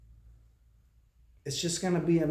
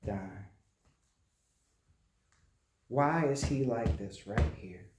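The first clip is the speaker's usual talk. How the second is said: retold grief; 2 semitones lower than usual. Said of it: "She said".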